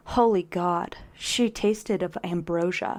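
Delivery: measured, overwrought romance narration; dramatic romance reading. Acted. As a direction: savour each phrase with mock reverence. Reads the book passage dramatically.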